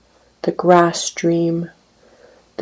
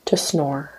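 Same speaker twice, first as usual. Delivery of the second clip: soft breathy whisper, fading; 3 semitones lower, 9 dB quieter than usual. Acted. Poet ends poem to sleeping woman, whispered. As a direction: hush it so she stays asleep.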